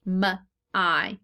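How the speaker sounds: M as a short "muh", then I as long "eye", separated; phonetic sounding out. Shown as a demonstration. Teacher showing what the Y says, separate phonetic sounds. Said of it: "the Y is going to say I".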